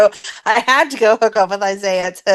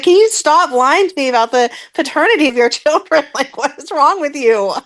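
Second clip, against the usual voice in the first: mock exasperation; 4 semitones higher than usual. Acting out Curtis's exasperated reply.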